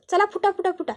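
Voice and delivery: high, sharp shoo-away; daughter-in-law chasing the whole family out, shrill and high; rude shooing. Acted. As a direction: shoo them out, pitch jumping up. Aishwarya chases the family out.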